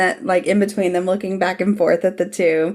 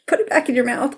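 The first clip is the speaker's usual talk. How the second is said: fast, raised, scandalized plea; shocked outburst; 6 semitones higher, faster than usual. Real, not acted. Shocked reaction to a cruel line.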